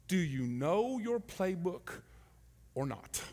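soft, slow question; God asking gently. Pretend. God voiced as coach.

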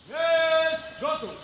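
slow drawn-out echoed command. Acted. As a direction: repeat the order back slowly. Echoing the command slowly.

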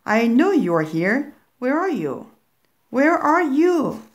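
put-on a goblin hunting for hidden children; creepy intruder calling out, stretching the last words; eerie voice. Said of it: "A voice spoke".

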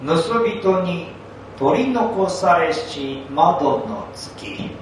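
drawn-out, deliberate poem reading; slow haiku recital. Acted. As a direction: savor each phrase of the haiku. Old monk recites a haiku.

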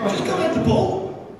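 mock angry order. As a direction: give the command the way the manager yelled it. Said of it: "I didn't say bloody, by the way".

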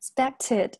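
"expected" with the p softened towards b; voiced consonant after S. Shown as a demonstration. Teacher shows voicing after S, "expected" with a b-like p. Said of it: "S后面清辅音浊化".

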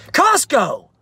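high loud "Costco!" with falling tune; eureka shout. Acted. Dad struck by a plan, loud excited "Costco!". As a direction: blurt it like a brilliant idea. Sudden idea exclaimed.

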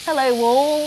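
practised Scouse catchphrase; Liverpool accent. Shown as a demonstration. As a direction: lightly put on Liverpool voice. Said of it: "Walk around the house saying".

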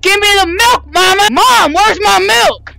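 put-on demanding child shouting; yelling across the room. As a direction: shout for your milk like a bratty kid. Kid demanding milk from mom.

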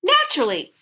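high cackled reply; cackly bird squawk; cackling bird. A narrator's reading. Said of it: "the bird cackled".

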